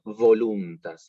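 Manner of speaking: "voluntas" with a vibrating v, lips on teeth, said slowly; "voluntas" with a true voiced labiodental v; buzzing V. Shown as a demonstration. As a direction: let the v in "voluntas" buzz. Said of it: "la V corta, que tiene que vibrar".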